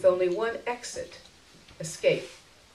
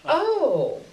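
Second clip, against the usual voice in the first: relieved; 10 semitones higher, 6 dB louder than usual. Acted. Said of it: "I said, relieved".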